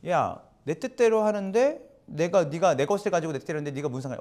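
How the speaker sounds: "야"로 시작해 몰아붙이듯 빠르게 쏘아붙이는 주인; 일꾼을 윽박지르는 주인처럼 퉁명하게; 거칠게 쏘아붙이기. Retold or imitated. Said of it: "이런 게 아니라". (불평하는 일꾼에게 쏘아붙이는 주인, 퉁명한 말투)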